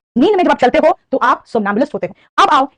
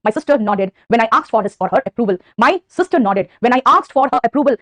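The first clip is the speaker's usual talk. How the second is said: slow, spaced-out model sentence; teacher modelling a sentence; slow example sentence; much slower than usual. Shown as a demonstration. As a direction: read it slowly for dictation. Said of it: "अगर मैं कहूं".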